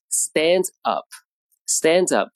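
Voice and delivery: "stand up" stressed on "stand", slowed. Shown as a demonstration. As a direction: lean on "stand" and let "up" fall away. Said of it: "变成了第一个词".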